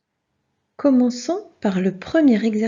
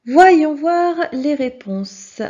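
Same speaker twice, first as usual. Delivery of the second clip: announcing; 5 semitones higher, 6 dB louder, much slower than usual. Acted. Teacher announcing answers.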